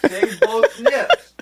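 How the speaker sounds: slow and high, like reading out an order; mock solemn decree. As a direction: announce it slowly like a decree. Repeating the chat request.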